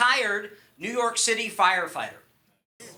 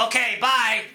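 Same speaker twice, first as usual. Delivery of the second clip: abrupt brush-off; 3 semitones higher, 4 dB louder than usual. Acted. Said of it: "You don't want them to go".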